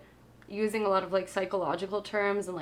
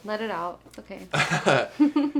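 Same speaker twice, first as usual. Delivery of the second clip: slow, drawn-out laughing it's okay; laughing comfort; 4 dB louder, much slower than usual. Real, not acted. Host laughingly comforts co-host close to tears, slow and drawn out. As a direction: tease them gently through a laugh.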